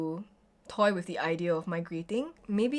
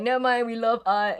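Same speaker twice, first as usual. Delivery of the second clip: breezy, louder mock-carefree voice; mock cheerful shrug; 4 semitones higher, 6 dB louder than usual. Artists waving off being broke, mock carefree. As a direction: toss it off like it doesn't matter.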